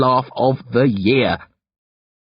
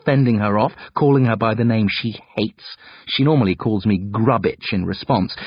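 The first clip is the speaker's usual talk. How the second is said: usual speaking voice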